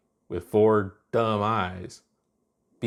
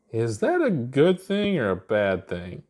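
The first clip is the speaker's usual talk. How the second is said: wavering confidence; 3 semitones higher, slower than usual. Acted. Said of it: "her usual confidence wavering".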